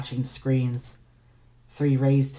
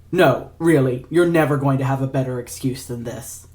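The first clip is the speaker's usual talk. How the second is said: impatient; 3 dB louder than usual. Acted. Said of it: "Ignatius said impatiently".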